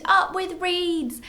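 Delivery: high, slow hooted cheer; hooting with delight. A narrator's reading. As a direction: stretch the happy hoot out. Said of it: "And they hooted".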